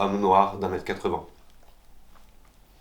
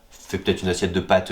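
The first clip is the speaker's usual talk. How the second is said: ordinary talk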